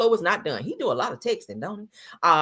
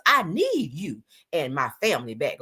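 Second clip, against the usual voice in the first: insistent weight on "need"; emphatic, capital letters. Retold or imitated. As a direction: stress on "need" as if typed in capitals. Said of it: "in capital letters".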